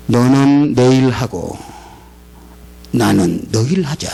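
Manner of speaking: deep-set divine promise; solemn voice of God. Retold or imitated. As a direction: speak as God answering. God's answer to prayer.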